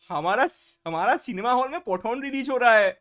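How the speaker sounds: put-on Bengali accent. Streamer showing off accents on request, mock Bengali accent. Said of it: "Pathan releasing वाला बंगाली".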